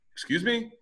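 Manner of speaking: high, offended excuse me; indignant surprise. Retold or imitated. Man answering a scolding neighbor, high indignant. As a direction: act taken aback. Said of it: "And I'm like".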